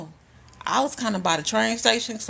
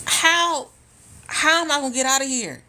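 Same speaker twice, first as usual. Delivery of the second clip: mock panic; 8 semitones higher, 4 dB louder than usual. Voicing stranded lady's panic.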